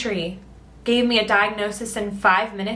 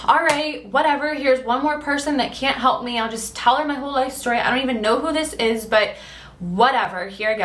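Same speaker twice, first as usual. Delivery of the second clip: dismissive, pitch raised, an eye-roll in the voice; cold and salty; 5 semitones higher than usual. Retold or imitated. Replying to a stranger's message, cold, salty and dismissive. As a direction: brush her off, sure she can't help. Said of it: "I was very cold and very just salty".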